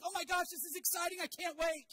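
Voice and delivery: a lightly voiced excited runner. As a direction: play the grinning runner loving it. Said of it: "He's like".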